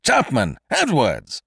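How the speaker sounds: loud, drawn-out call for both servants; high, urgent summons; crying out. A narrator's reading. Alarmed master summons secretary and servant, crying out loudly. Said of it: "Mister Kesselbach cried again".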